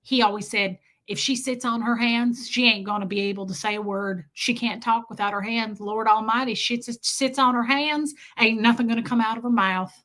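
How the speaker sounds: lightly voiced Southern storyteller; Southern accent. Woman quoting her daddy's teasing, light Southern accent. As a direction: give it a folksy Southern lilt. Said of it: "she was like".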